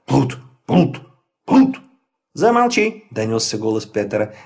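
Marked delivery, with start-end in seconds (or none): 0.1-1.8 barking dog voice; dog barking words. Acted. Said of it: "Максимилиан залаял". 2.3-3.1 shouting. Acted. Peter shouts at dog.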